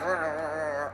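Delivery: imitated dog growl; mock low growl, softly; understated doggy grumble; little growl. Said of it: "a little growl in his voice".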